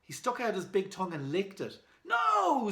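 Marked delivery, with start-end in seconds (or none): 2.0-2.7 high, loud, sudden no; sharp no. Acted. Boy stopping the caveman licking the box, sharp. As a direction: stop him mid-lick.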